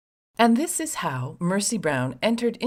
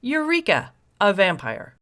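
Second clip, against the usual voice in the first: higher, hammed-up triumphant cry; mock eureka; 3 semitones higher, 4 dB louder than usual. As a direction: announce the find like gullible villagers.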